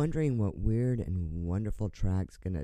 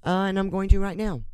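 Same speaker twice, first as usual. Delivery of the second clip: gleeful defiance; 10 semitones higher, 5 dB louder, faster than usual. Real, not acted. Defiant radio host, swearing on air.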